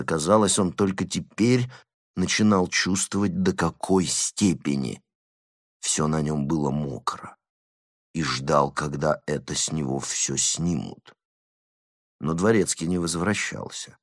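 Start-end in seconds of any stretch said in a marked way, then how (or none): none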